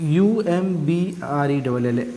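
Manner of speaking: letters spelt out slowly one by one; slow spelling out. Shown as a demonstration. Teacher spelling the word to students, slow and clear. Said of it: "क्या हो गया, अम्ब्रेला".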